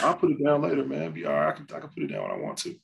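high then fast, mumbled addict excuses; twitchy slurred sniffing addict; crackhead voice. Retold or imitated. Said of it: "You start sounding like a crackhead".

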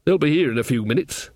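lightly voiced old witch, halting then fussing; hesitate, then bustle a friend into a seat; relenting Nanny. Nanny relents, tells Granny to sit.

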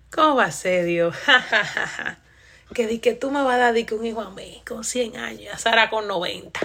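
a mock disbelieving Abraham laughing through it; laughing Abraham, imitated. Abraham laughing in disbelief at God, imitated laugh. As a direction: play Abraham laughing at God's promise. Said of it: "di que se empieza a reír".

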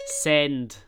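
firm loud order; loud command. Shown as a demonstration. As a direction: bark it at the phone. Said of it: "commanding phone".

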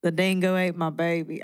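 tentative Australian accent; Australian accent attempt. Shown as a demonstration. Cohost tries the dingo line in an amateur Australian accent. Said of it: "Australian's hard for me, too".

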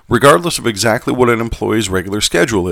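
put-on light Southern gentleman accent; old southern gentleman. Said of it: "going back to my Southern gentleman accent".

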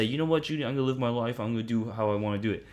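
lightly voiced stubborn listener; defiant listener. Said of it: "and you just say".

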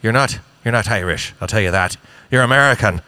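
emphatic mock-Irish correction; Irish accent. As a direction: put the tourist straight in an Irish accent. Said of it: "Do you want me to do the accent?".

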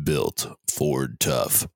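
low, slow, menacing slogan; calm psychopath. Acted. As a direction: drag out Ford Tough like a calm killer. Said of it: "my serial killer voice".

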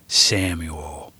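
put-on grandpa soothing the scared boy, calm. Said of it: "Grandpa said in a calm voice".

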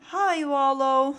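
drawn-out, weary greeting; sighing. A narrator's reading. Snip greeting Wallow after many boasts, sighing. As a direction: greet with a mild sigh. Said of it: "sighed Snip".

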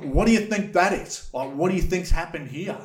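high, pressing question; exasperated demand. Retold or imitated. To the nonchalant police, high exasperated demand. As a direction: push them to see it.

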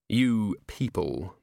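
slow, pointed repeat of "You people"; a dwarf throws back "You people" slowly and pointedly; pointed echo. Acted. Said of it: "the dwarf noted".

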